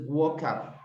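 WALK UP joined as one word, "wokap"; teacher's linked model of "walk up"; linked pronunciation. Shown as a demonstration. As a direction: slide "walk" straight into "up". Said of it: "como si fuera una sola palabra".

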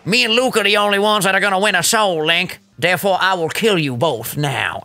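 put-on accent of an absent rival, lightly done; Dylan's accent. Quoting the rival's Soul Link threat, in a put-on Dylan accent. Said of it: "my accent for Dylan sounded so much different".

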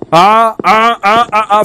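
high loud panicked ah-ah-ah; startled gasping cries. Real, not acted. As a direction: gasp out in fright. Startled by anomaly.

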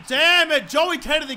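sudden annoyed outburst; exasperated cursing. Real, not acted. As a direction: curse a teammate mid-play. Curses a teammate mid-game.

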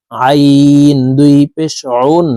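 আইন pressed from the middle of the throat; pressed ain. Shown as a demonstration. Teacher showing viewers how to press আইন from the throat. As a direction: squeeze আইন out from mid-throat, slowly. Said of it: "চাপ দিয়ে পড়তে হবে".

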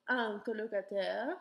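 "un colocataire" with nasal un. Shown as a demonstration. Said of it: "article will change the pronunciation".

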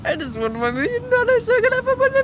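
high quick pleading; eager plea. Acted. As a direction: rush it out like a greedy kid. Whiny plea.

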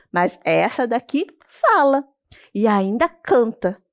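slow, drawn-out mocking boast. Turtle mocking the boy, slow and smug. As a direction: drawl the boast with a sneer. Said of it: "toda debochada".

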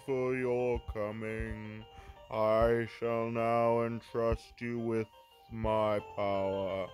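slow, grave ancient voice; solemn spirit voice. Acted. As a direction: speak slowly like a sorrowful spirit.

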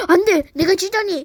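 loud dramatic cry of defeat; hammed-up despair. Loser crying out theatrically at the defeat. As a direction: wail at losing.

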